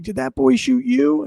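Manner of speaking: high, questioning mock-mom voice; mom's anxious question. Son retelling his mom checking on him, high-pitched questioning.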